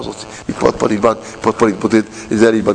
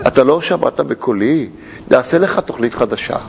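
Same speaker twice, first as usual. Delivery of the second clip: calm GPS; 4 semitones lower than usual. Retold or imitated. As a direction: say it patiently, no annoyance. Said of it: "הוא לא מתעצבן". (קול רגוע ואיטי של הג'י פי אס)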